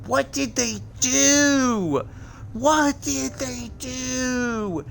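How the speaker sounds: slow, stretched-out dismay; appalled, slowly stretched exclamations; drawn-out disbelief. Real, not acted. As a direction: drag each word out, aghast. Drawn-out disbelief at nerfed game.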